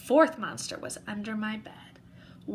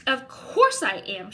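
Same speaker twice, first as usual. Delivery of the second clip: snapping; 2 semitones higher, 5 dB louder than usual. Acted. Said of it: "she snapped".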